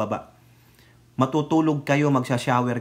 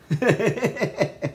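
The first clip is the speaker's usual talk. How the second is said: short laugh; 6 semitones higher than usual. Real, not acted. Laugh after mocking remark.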